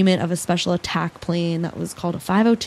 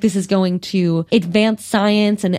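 excited; 3 semitones higher than usual. Retold or imitated. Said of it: "He's so excited".

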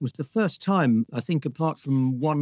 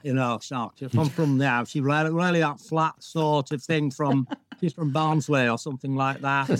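flat Barnsley accent, imitated. Actor imitating a fellow cast member's flat Barnsley accent. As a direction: do a flat South Yorkshire Barnsley voice. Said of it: "one of my daughters who talked like that".

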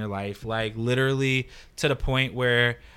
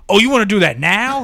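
high, loud mock surprise with a laugh; surprised quote; 8 semitones higher, 9 dB louder than usual. Jack amused at the meeting request, high mock surprise. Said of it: "He's like".

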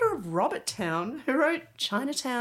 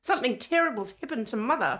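put-on Australian accent; 4 semitones higher than usual. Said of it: "doing an Australian accent".

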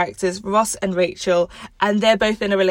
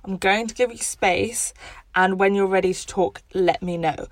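calm, understated reassurance; understanding reply. Acted. Ross respecting Rachel's boundaries, calm and accepting. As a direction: give space gently, easing off at the end. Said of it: "Ross could have said".

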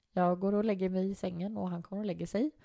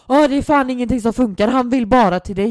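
much louder exasperated mock parent; put-on dark voice; 5 semitones higher, 12 dB louder than usual. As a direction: blurt it out like a desperate dad. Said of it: "drar ju på en så jävla mörk röst".

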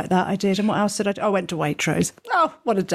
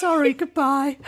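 laughing; 9 semitones higher than usual. Retold or imitated. Retelling partner's hang-up, laughing.

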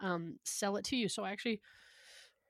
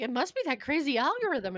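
mock excuse; 7 semitones higher, 7 dB louder than usual. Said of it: "you're like".

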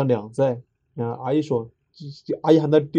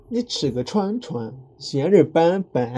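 Sichuan dialect; 3 semitones higher, slower than usual. Shown as a demonstration. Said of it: "还有".

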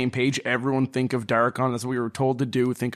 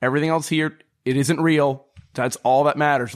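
urgent pleading; 3 semitones higher, 3 dB louder than usual. Acted. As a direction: snap her out of it, insistent. Urging a panicked friend.

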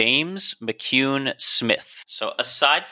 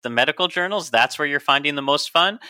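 higher-pitched incredulous questioning; mock disbelief; 4 semitones higher than usual. Host voicing the co-host's doubts, mock incredulous. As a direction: voice the listener's sceptical reaction. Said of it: "And I know you're thinking".

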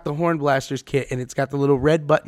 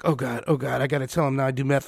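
mock guilty mumble; 4 semitones lower, 7 dB quieter than usual. Girl's guilty inner voice.

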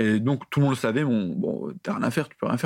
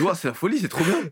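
higher, hammed-up wonder; mock delight; 5 semitones higher than usual. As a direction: play the kid dazzled by the console. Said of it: "Je dis". (émerveillement imité, plus aigu)

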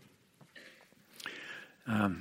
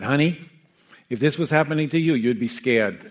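put-on louder, higher, blunt comeback from a tough old woman; quoting a dying woman's tart reply, half-laughing; tough retort; 3 semitones higher, 8 dB louder than usual. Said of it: "this tough cookie".

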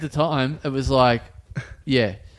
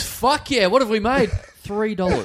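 raised, hammed-up boss voice; a gleeful owner counting takings; excited pub owner; 6 semitones higher than usual. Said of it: "he goes".

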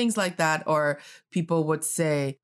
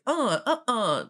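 "Uh, uh-uh" falling at the end; slow "Uh, uh-uh" stepping down; downward tone; 5 semitones higher, slower than usual. Shown as a demonstration. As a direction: let "uh-uh" drop in pitch. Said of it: "that kind of tone that goes down".

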